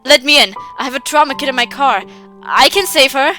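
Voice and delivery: loud firm demand; insistent plea. Acted. Father demands to be let in, loud and insistent. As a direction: press the demand hard.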